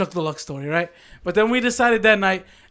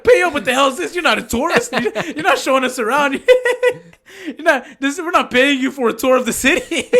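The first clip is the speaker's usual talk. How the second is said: higher, laughing outrage; indignant disbelief; 4 semitones higher than usual. Retold or imitated. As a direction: scoff at a ridiculous demand. Indignant retort to Chuck.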